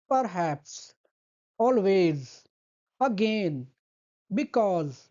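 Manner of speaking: first syllable light, second one hit hard; stress on second syllable. Shown as a demonstration. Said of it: "उसको हम धीरे से बोलेंगे". (दूसरे अक्षर पर ज़ोर, पहला धीमा)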